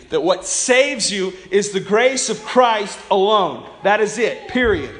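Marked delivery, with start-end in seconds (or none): none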